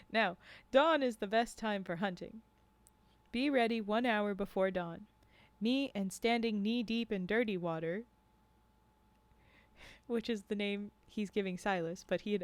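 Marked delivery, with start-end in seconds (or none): 0.1-8.0 measured read-aloud with lightly voiced dialogue; story narration. A narrator's reading. Narrator reading a tale of guides and hunters to a stream, storytelling. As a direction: read it as a first-person storyteller.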